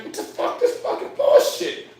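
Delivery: a hushed gasp rising to a squeaky whisper; stunned whisper at the pile turning human; whispered shock. Retold or imitated. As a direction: whisper it like you've seen a ghost. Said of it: "You just like".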